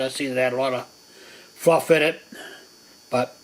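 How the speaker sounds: talking through a blocked nose; stuffed-up nose after sinus surgery; stuffy nose. Real, not acted. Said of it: "If I sound a little stuffy".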